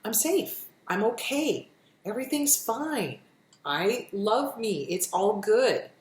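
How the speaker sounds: gentle, calm reassurance, slowing at the end; self-soothing talk. Shown as a demonstration. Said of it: "what is some self-soothing talk".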